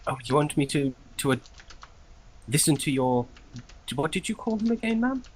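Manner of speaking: high, quick, confused servant; baffled clerk asking again. Acted. Clerk confused, higher fast.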